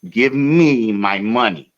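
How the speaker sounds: each word spaced out, slow; slow and insistent; slow insistent demand. Retold or imitated. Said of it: "I said".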